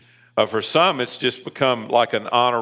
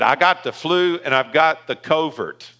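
affectionately mimicked Southern accent, a bit higher; Larry Hughes's Southern accent; 4 semitones higher than usual. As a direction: imitate a deacon's Southern accent. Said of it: "I love his Southern accent".

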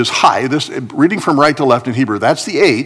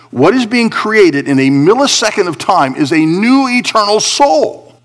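raised pitch, driving sermon delivery; emphatic preaching; 6 semitones higher than usual. Real, not acted. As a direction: preach it in punched, separated phrases.

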